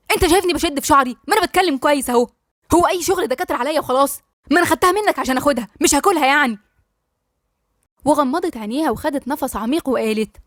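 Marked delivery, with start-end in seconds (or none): 0.1-6.6 irritated retort. Acted. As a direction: fire it back, fed up. (رد عصبي سريع بصوت عالي)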